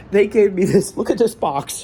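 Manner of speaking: high, tearful and overwhelmed; choked up. Real, not acted. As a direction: push the words out through tears. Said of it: "he's not crying".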